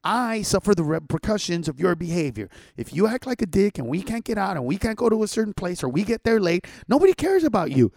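stern, then blow up at the end; parent's authority. Pretend. Parent to kid who won't get in the car, building to a shout. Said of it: "put your authority out and go".

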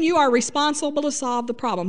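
ordinary talk, nothing marked

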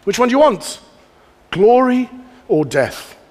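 slow, hammed-up movie-hero challenge; a light parody of a film cliché, stretched out; mock movie line. Preacher mocking a comic movie line, slow and hammed-up. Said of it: "It's a comic line in movies".

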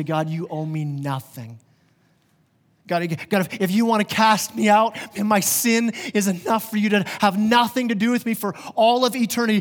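pleading prayer that swells then sinks to a hush; earnest prayer. Acted. Preacher voicing a repentant sinner praying to God, earnest. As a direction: pour it out to God, then fade.

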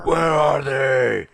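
slow, loud demanding shout. Acted. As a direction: bellow the question. Interrogation shout in scene.

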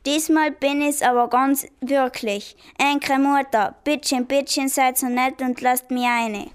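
lightly voiced German dialect at the door; broccoli fools the kids in German dialect. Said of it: "übte das Dialekt sprechen".

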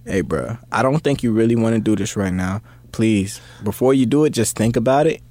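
gentle. Shown as a demonstration. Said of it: "like, real nice".

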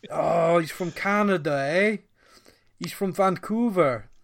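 shaky-attempt Canadian impression; attempted Canadian accent. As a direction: put on a jokey Canadian accent. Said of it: "What was that impression".

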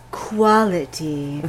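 quality drawn out slowly and low; slow emphasis. Shown as a demonstration. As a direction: say quality slowly, savouring each syllable. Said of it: "Logan had something ... boys didn't have".

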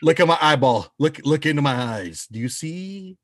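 lightly put-on hypnotist's coaxing; mock hypnotist. Host pretends to hypnotize guest into watching the show, mock hypnotist. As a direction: draw out the words as if mesmerizing a friend.

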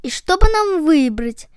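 dreamy, lilting wondering. Acted. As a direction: muse over a choice of treats. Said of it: "мечтательно произнесли ноги". (мечтательно)

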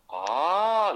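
an imitated glad gasp of recognition; lighting up. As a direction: imitate an old man suddenly recognising his own name, a little hammed-up. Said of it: "he'd light up".

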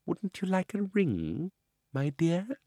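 fake-sweet, ingratiating old man; butter them up, theatrical warmth; oily old uncle. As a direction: uncle flatters the girl to trap her. Uncle Andrew tempts Polly.

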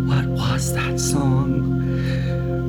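whispered. Retold or imitated. Client whispers retold question.

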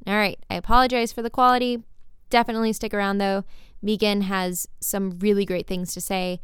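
muffled under a blanket; record it muffled under a blanket. Real, not acted. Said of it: "I am recording this under a blanket".

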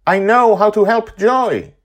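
high, loud excited cry; excited exclamation. Acted. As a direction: blurt out the idea. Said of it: "suddenly she says".

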